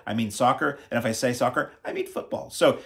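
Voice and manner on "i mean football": whispered aside. Real, not acted. Joking aside after soccer rule.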